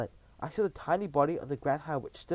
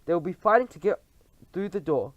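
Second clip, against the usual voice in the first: high, loud gloating; gleeful witches; 3 semitones higher, 5 dB louder than usual. Acted. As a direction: gloat together. Coven gloating.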